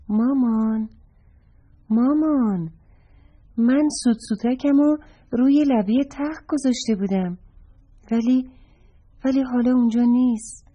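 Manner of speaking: hint of a child fretting over a lost toy; little boy voice. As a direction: call to mom like a worried small boy. Child character calls his mother.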